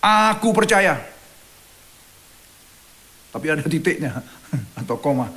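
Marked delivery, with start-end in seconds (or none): 0.0-1.0 high pleading cry, a little louder. Retold or imitated. Father crying out to Jesus, high pleading cry. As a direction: cry out your faith like the desperate father. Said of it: "Segera ayah anak itu berteriak".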